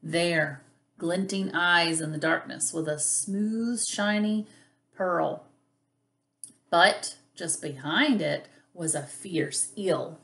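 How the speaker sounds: animated picture-book narration, stretched key words; lively, expressive storybook reading; reading to children. A narrator's reading. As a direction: read it like storytime for little kids.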